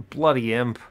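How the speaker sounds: laugh, then mutter the curse through it; amused grumble at the imp. Real, not acted. Laughing at imp stealing kill.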